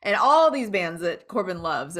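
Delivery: ordinary delivery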